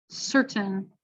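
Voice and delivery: "certain" with a released T; careful crisp T; regular T. Shown as a demonstration. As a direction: say the T clearly. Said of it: "regular T".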